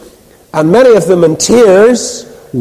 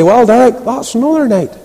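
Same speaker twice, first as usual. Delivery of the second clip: lightly imitated Ballymena accent, pitched up; 5 semitones higher than usual. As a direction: mimic an older Ballymena man, a bit higher. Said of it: "in his Ballymena accent".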